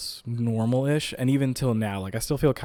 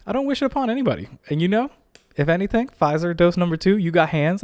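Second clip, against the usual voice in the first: mock dramatic address; 7 semitones higher, 4 dB louder, faster than usual. Addressing the vaccine dose dramatically.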